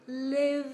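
"Live" ending on a long buzzed v; teacher's emphatic "Live", v drawn out; final v sound. Shown as a demonstration. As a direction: hold the voiced v at the end of "Live". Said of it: "kết thúc bằng âm v".

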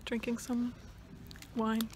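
talking while chewing; words round a bite of food; mouth full. Real, not acted. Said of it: "I need to stop eating when I'm talking".

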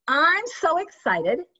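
fast breathy excited line; excited take. Shown as a demonstration. Coach demoing an excited invite to a customer. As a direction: sell the excitement, almost breathless. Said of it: "That sounded excited".

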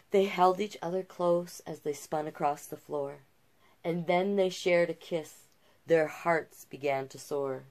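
gentle rhyming read-aloud; storyteller voice for a picture book; storybook narration. A narrator's reading. Reads the fairy tale aloud.

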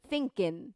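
"thinking" said lightly as "thinkin"; relaxed ending. Shown as a demonstration. Teacher modelling lyric pronunciation, lightly dropped G in "thinking". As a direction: drop the final G of "thinking". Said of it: "はっきり発音はしないですね".

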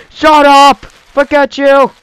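loud high mock yell; mock angry dad. A cranky dad yells at his son.

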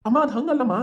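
a son cut off, insisting loudly; loud protest. Acted. Son protests to scolding mother.

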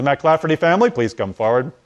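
loud call across the room; officer calling the family forward. Retold or imitated. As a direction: summon the family.

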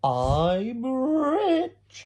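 high, loud triumphant cry; gleeful shout. Retold or imitated. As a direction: crow it out in triumph. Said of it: "he goes".

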